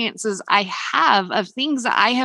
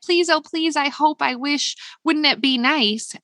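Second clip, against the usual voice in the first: mock pleading; 5 semitones higher than usual. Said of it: "don't ask for it like".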